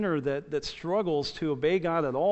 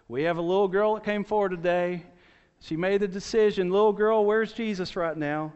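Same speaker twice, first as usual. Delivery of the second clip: mock preacher; 4 semitones higher, 4 dB louder than usual. Preacher voiced in a story.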